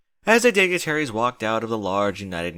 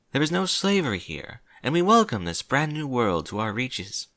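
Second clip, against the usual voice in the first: slightly higher princess voice; lightly voiced regal princess; 4 semitones higher than usual. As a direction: lightly play a princess addressing an assembly. Voices Princess Celestia's speech.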